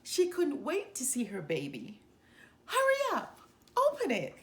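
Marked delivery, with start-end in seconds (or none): 2.7-4.3 high, loud, giggly urging; much higher, louder giggly ladies; giggling. A narrator's reading. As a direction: tease her to hurry, giggling. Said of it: "giggled the elephant ladies".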